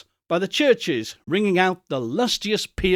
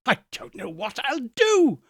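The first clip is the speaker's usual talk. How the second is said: laughing and crying; 8 semitones higher than usual. A narrator's reading. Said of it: "laughing and crying in the same breath".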